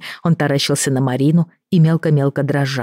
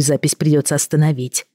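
ordinary delivery, nothing marked

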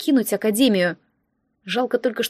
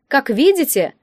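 higher, louder showy opener; smug villain speech; 4 semitones higher, 4 dB louder than usual. Acted. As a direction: announce it like a showman. Instructor addresses the crowd.

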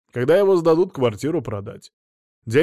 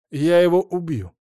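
vowing; 6 semitones higher, 6 dB louder than usual. Acted. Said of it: "пообещал Стас".

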